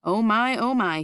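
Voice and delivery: oh my with growing wonder; delighted. Acted. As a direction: marvel at the prize. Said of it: "he said".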